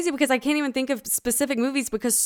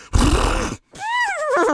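lip-flop horse snort. Shown as a demonstration. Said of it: "You make your lips flop".

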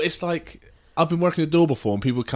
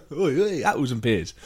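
mock Cockney accent. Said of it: "all the accents".

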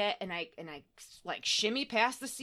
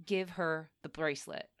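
mysterious voice; 5 semitones lower, 5 dB quieter than usual. Retold or imitated. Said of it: "in this androgynous voice that was, like, nondescript".

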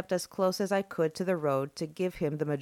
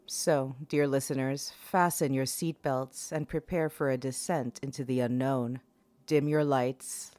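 horror host; 2 semitones lower than usual. Acted. Horror podcast host intro.

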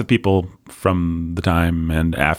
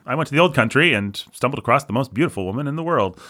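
lilting, fast mock Irish brogue, pitched up; bad Irish accent; 7 semitones higher, faster than usual. Podcaster slipping into a mock Irish accent. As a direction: ham up a stage Irishman telling a tale. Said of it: "I did not mean to do a bad Irish accent".

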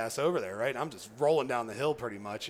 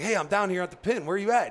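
higher, louder hail from below; calling out; 7 semitones higher, 6 dB louder than usual. Retold or imitated. Hunter calling his guide from the road, loud call. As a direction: call out to find him.

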